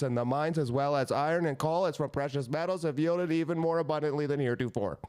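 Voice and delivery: high-pitched orator climbing as the list goes on; Abraham Lincoln. Acted. Reading the proclamation to co-hosts, high-voiced oratory. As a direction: declaim in one long run, pitch creeping up. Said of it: "That's actually what Abraham Lincoln sounded like".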